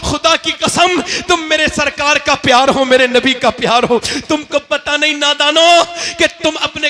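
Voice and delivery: loud, high fervent preaching, almost shouting; preaching at full force. Acted. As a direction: rouse the crowd with rising passion. (ऊँची आवाज़ में जोशीला वाज़)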